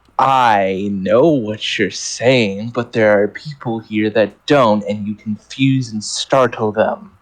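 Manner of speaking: deep, very low growl, semi-layered pseudo-Latin tone. Voicing a character who growls a reply, very low growling voice. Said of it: "She just growls and says in a very low pseudo Latin, like semi layered voice".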